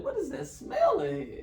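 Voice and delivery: high, loud mock disgust at a smell; hammed-up sniffing complaint. Friends in the house complaining about a stink, mock disgusted.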